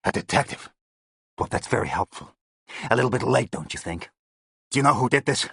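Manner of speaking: sarcastic American, jab at the lateness; New York accent. A narrator's reading. Gang boss mocking the Scotland Yard detective in New York accent. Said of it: "It was his accent I had heard".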